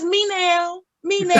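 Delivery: lightly voiced cat meowing "me now"; a hint of a demanding cat. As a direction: mimic the cat's whiny meow in words. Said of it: "he says".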